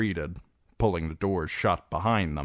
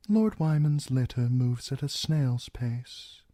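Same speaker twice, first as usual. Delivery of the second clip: cold Lord Bolton; 6 semitones higher than usual. Acted. Narrator voices Roose Bolton.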